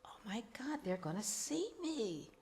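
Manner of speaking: hushed, panicked whisper to herself. Retold or imitated. Recovering alcoholic spotting meeting guys downtown, whispering in panic. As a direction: whisper it in sudden alarm. Panicked inner thought, hiding.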